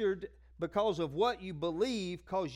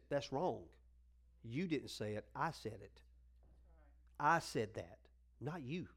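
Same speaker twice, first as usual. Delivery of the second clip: quiet God voice; 7 semitones lower, 7 dB quieter than usual. Retold or imitated. God voiced correcting Keith.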